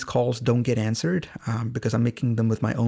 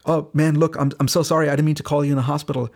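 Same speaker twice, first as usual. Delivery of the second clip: retold apology, higher and louder; flustered apology; 3 semitones higher, 4 dB louder, faster than usual. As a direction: hurry out an embarrassed, acted apology. Apologizing for calling a patient.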